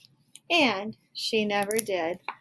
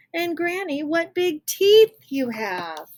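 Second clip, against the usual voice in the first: put-on high, slow, louder little-girl voice; Red Riding Hood asking about the teeth, slow; wondering little girl; 9 semitones higher, 8 dB louder, slower than usual. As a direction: draw out the question like a scared child. Girl's famous questions to wolf.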